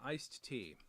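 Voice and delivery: "iced tea" with a strong D sound in "iced". Real, not acted. Vlogger naming his drink, "iced tea" with a strong D. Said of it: "the D in it as strong as I do?".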